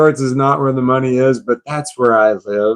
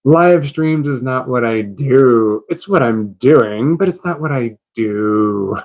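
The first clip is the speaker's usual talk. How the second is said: slow, relishing Live streams is not what I do; deliberate line, said for the fun of it; savored catchphrase. Shown as a demonstration. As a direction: say the catchphrase slowly, savoring each word. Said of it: "Let me say it again".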